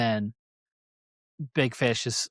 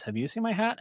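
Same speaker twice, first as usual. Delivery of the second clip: bear voice; 9 semitones higher, 3 dB quieter than usual. Retold or imitated. Bear asks rabbit.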